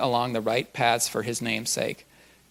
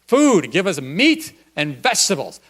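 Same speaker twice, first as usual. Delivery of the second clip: imitated prayer; 6 semitones higher, 7 dB louder than usual. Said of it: "She's like".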